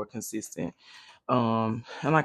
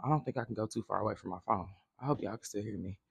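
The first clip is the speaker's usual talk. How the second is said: far from mic; 5 semitones lower, 11 dB quieter, faster than usual. Real, not acted. Walks away from her phone.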